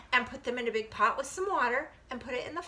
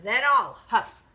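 loud wolf threat, swelling higher and longer; threatening big bad wolf; 5 semitones higher, 7 dB louder, much slower than usual. Wolf threatens the piggy, loud, slow and building. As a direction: build each threat, stretching the key word hugely. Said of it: "And the wolf says".

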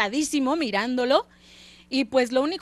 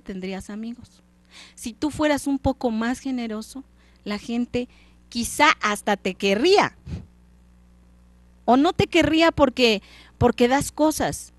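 fantasma que regaña y advierte, apenas actuado; fantasma del socio; 2 semitones higher, 4 dB louder than usual. Acted. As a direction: suplica al avaro que cambie, con voz algo más fuerte. El fantasma aconseja. (el fantasma le reprocha a Scrooge, voz levemente dramática)

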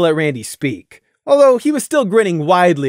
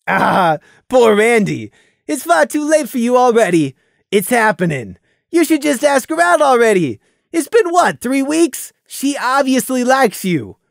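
higher, louder jovial stallion; hearty teasing buddy; teasing friend; 6 semitones higher, 4 dB louder than usual. Acted. Fiera teasing Randy.

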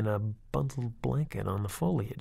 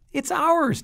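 put-on high, loud, pouty child's announcement; a little girl insisting, petulant; 7 dB louder than usual. A narrator's reading. Tina tells her dad the baby is theirs, petulant. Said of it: "Tina announced, a little petulant".

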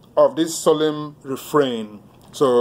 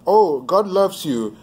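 higher-pitched, drawn-out mock assurance; glib reassurance; 5 semitones higher, slower than usual. Preacher mimicking what people tell children, glib reassurance. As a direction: imitate people's easy, sing-song comfort. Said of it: "because people will say".

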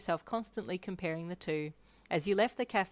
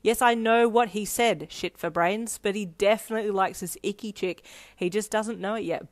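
sneering; 3 semitones higher, 7 dB louder than usual. A narrator's reading. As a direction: sneer at someone dim. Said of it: "Bakugo sneered".

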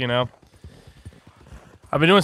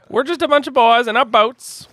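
put-on high, bright goofy sing-song boy voice; silly high voice; 9 semitones higher, 4 dB louder than usual. To friends in the boat, a giddy high goofy voice. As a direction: play it up like a giddy kid.

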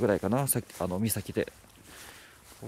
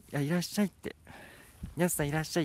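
sweet greeting; 5 semitones higher, faster than usual. Shown as a demonstration. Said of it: "demo greeting voices".

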